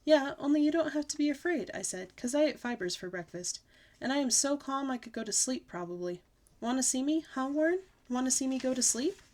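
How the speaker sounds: put-on high, eager kid voice; a bouncy girl showing off; lightly voiced excited child; excited little girl. Junie B. child voice in dialogue.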